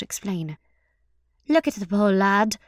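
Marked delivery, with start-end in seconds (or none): 1.5-2.6 mild sympathy in a woman's voice; understated sympathetic remark. A narrator's reading. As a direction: gently tease with a touch of pity. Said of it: "said the woman sympathetically".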